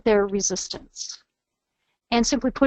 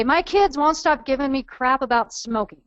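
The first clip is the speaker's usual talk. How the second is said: attitude; 3 semitones higher than usual. Acted. Trainer voicing a mom who smokes, with attitude. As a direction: put a touch of irritated attitude in it. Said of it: "you can kinda hear the attitude in the voice".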